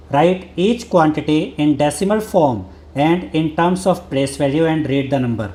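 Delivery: slow, careful reading of the book's English line; textbook read-aloud. Acted. Teacher reading the textbook to students, slow and deliberate. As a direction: read it out word by word for the class.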